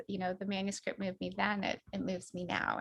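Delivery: low, softened, heartfelt voice; moved. Real, not acted. Publisher thanking the author for a manuscript, quietly moved. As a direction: speak softly, moved by the memory. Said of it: "again, very moved tonight".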